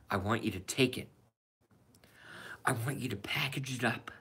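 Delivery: Donnie movie quote. Retold or imitated. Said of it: "This is from Donnie from The Wolf of Wall Street".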